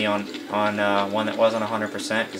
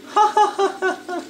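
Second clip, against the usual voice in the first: very high giggle; squeaky burst of laughter. Real, not acted. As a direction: let a squeal of laughter slip. Laughing at the glitch.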